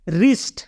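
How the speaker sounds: रिस्ट with the W silent, starting on R. Shown as a demonstration. Teacher showing learners how wrist is pronounced, रिस्ट with silent W. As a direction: say रिस्ट beginning straight on the R sound. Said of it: "इसलिए इसको हम उच्चारण करेंगे".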